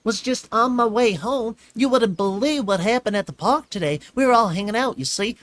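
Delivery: high, loud, eager little filly rattling on; bubbling over to tell her day; excited filly chatter. A narrator's reading. Filly gushing to Twilight about the park, excited.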